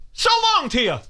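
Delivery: high, airy sing-song goodbye; mock farewell. Mock farewell to the guy who insulted me. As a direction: toss off a high dismissive so long. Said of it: "Like that".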